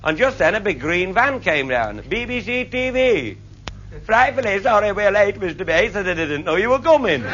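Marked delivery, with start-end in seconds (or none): 2.1-7.2 lightly voiced plummy, put-out BBC crew; a hint of a frightfully polite, miffed BBC man; posh peevish BBC man. BBC crew man apologising to the speaker, lightly voiced plummy. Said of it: "They go all peevish".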